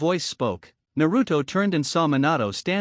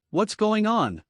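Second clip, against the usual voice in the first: terrified; 6 semitones higher, slower than usual. A narrator's reading.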